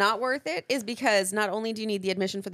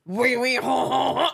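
put-on hammy French accent; mock French chef voice; 3 semitones higher, 4 dB louder than usual. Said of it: "French accent".

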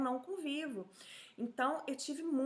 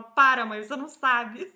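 loud, teasing imitation of her son; retold son protesting; 13 dB louder than usual. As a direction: cut mum off loudly, amused. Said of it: "Meu filho morre de rir. Ele fala".

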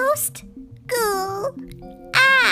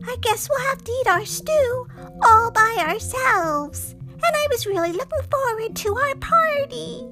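much higher, sorrowful witch voice; sad little witch; 11 semitones higher, 3 dB louder than usual. A narrator's reading. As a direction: lament the ruined party. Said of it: "began to cry".

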